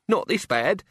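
high-pitched jittery objection; high, anxious gang member; uneasy henchman. Acted. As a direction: pipe up nervously. Chicken Wire voiced, uneasy.

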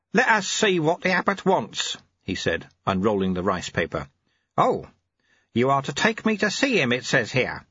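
put-on a kindly old sweeper, amused; old monk Lu Tse. Old sweeper reading the abbot's note, genial.

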